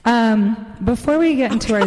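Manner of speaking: echoing voice with reverb; cave echo. Real, not acted. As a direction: speak in a cave. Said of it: "I have the effect on my vocals".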